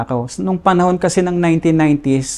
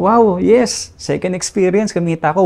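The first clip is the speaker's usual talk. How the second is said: higher, brighter cheer at earning money; excited cheer; 4 semitones higher than usual. Retold or imitated. Young man thrilled at his second pay, excited cheer. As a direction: celebrate the easy cash.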